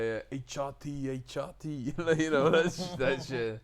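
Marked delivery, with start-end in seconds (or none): 0.3-1.7 imitated Newport Welsh lilt; Newport accent. Actor mimics his Welsh friend, Newport accent. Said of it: "he was like Newport".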